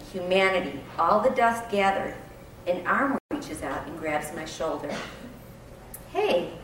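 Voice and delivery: reading a story aloud; story narration. Acted. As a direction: read it like a memoir passage. Reads blog narration aloud.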